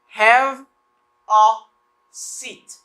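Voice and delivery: "Have" loud, "a", then a whispered "seat"; slow drill of "Have a seat"; word by word. Shown as a demonstration. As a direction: lay out "Have a seat" one word at a time. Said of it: "I don't say have a".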